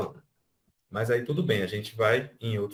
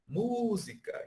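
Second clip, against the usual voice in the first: "música" with a high "mu" falling away; stressed first syllable; 12 semitones higher, much slower than usual. Shown as a demonstration. Teacher repeating the word for the class. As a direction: pitch up on "mu" in "música". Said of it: "o mu é a sílaba forte".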